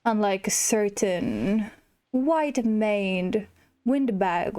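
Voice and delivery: a hint of a slow, smug lion king; lightly voiced Scar. Gamer reading Scar's lines to the player, mildly smug. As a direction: drawl it out as a lazy, haughty villain.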